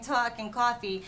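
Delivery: imitated Jersey accent on "talk" and "coffee". Coach echoing Bobby's words back to him, Jersey accent. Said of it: "I'm hearing a certain way you're saying".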